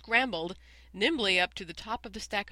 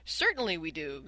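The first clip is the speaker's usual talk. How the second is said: yelled; 3 dB louder than usual. Acted. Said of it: "yelled one and all".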